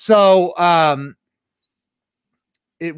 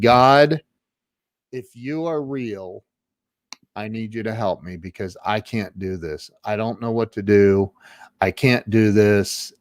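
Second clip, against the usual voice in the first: understated, low retold plea; mostly hushed plea to God, retelling a breakdown; desperate prayer; 3 semitones lower than usual. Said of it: "I literally started crying".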